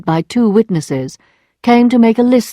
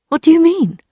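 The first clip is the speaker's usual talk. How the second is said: alarmed; 10 semitones higher than usual. Acted. Emma alarmed by Lheureux.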